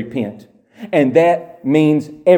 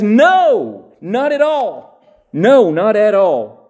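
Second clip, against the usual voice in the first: emphatic exclamation; 5 semitones higher, slower than usual. Retold or imitated. Preacher voicing Jesus with an emphatic No. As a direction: drive the denial home hard. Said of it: "with an emphatic exclamation mark".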